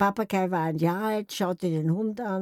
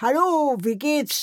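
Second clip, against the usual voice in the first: parrot greeting; 5 semitones higher than usual. Retold or imitated. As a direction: call again like a parrot. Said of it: "plötzlich ruft mir einer".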